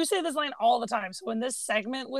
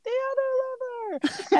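high, slow clipped-back annoyance; irritated Yzma; 13 semitones higher than usual. Retold or imitated. Quoting Yzma after falling into water, high and slow. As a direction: grit it out, soaked and furious.

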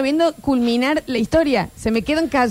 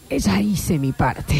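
Eh, ya hice mi parte said slow and low, shrugging it off; dismissive slow line; 5 semitones lower, much slower than usual. Shown as a demonstration. Comedian mocks friend's story ending, dismissive slow delivery. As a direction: drag it out like you couldn't care less. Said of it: "problema de entonación".

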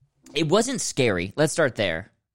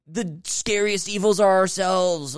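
mock profound; 5 semitones higher than usual. Parodying the film's pretentious message.

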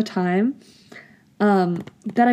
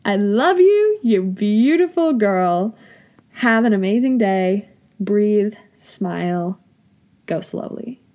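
tender self-affirmation. Real, not acted. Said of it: "And then I wrote down".

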